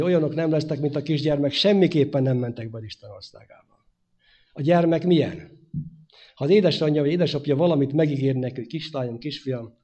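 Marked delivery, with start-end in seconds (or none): 0.0-3.9 loud, weighty words of Jesus; emphatic quote. Acted. Preacher quoting Jesus to the congregation, emphatic. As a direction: proclaim it firmly. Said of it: "Az Úr Jézus azt mondta".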